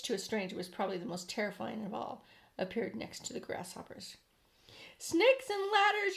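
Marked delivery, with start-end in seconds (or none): 5.0-6.2 high, loud, slow exclamation; alarmed yell. A narrator's reading. Fire chief yelling in alarm at Miss Spider. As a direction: blurt it out aghast. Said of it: "yelled the chief of the fire department".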